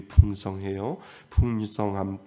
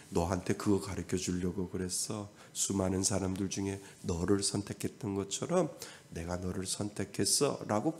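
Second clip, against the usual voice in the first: a soft, reassuring God's answer; gentle God; 6 dB quieter than usual. Acted. God answers a believer's question, quiet and reassuring. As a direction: answer softly, like a patient father.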